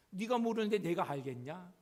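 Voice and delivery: ordinary talk, nothing marked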